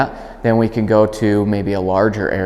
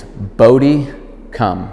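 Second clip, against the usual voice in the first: clear recall command; much slower than usual. Shown as a demonstration. Trainer demonstrating recall to the dog, clear call. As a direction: call the dog's name, then command. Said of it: "say that come command really clear".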